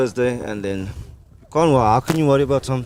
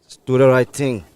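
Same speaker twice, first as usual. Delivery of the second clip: put-on West Indian accent. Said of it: "are you gonna talk to us in your normal accent now".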